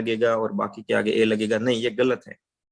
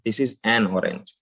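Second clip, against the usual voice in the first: very slow, "an" set apart from "orange"; clear break before orange; 2 semitones lower, much slower than usual. Shown as a demonstration. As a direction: slowly separate "an" and "orange". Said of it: "एक cut लगाने के लिए हम एन". ("an" और "orange" अलग-अलग, धीमे)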